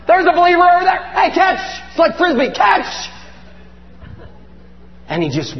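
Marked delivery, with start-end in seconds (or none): 0.1-1.6 high, raised call across a distance; excited calling out. Acted. Jesus tosses authority to a believer, excited calling out. 2.5-3.1 high, quick call; calling out a throw. Acted. Jesus throws authority like a Frisbee, high calling out.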